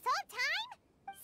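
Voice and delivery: surprised. Real, not acted. Shocked at attendant's secret identity.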